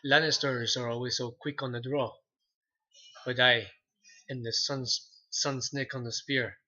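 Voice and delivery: lightly voiced Oberyn in a Spanish accent. Shown as a demonstration. Quoting Oberyn Martell's threat in Spanish accent. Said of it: "my Spanish accent".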